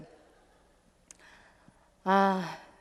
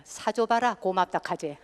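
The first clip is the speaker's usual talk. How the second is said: Gyeongsang woman retort. Retold or imitated. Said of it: "경상도 여자들에게".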